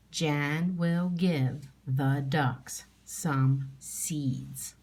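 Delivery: slow, word by word; teacher reading a sentence slowly; slow reading aloud. Shown as a demonstration. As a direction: read each word slowly and clearly. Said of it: "I'm gonna read that one more time".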